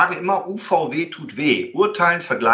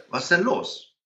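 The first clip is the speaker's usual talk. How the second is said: softer, easy question; calm short question; 3 semitones higher, 5 dB quieter than usual. Retold or imitated. Parking lot, asking the angry man, softly calm. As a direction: ask it gently, no edge. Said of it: "Ganz kurze Frage".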